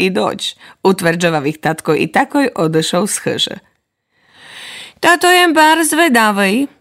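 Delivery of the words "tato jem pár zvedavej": put-on higher eager child voice; curious child note. Little note eager to see the rain. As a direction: sound curious like a small kid.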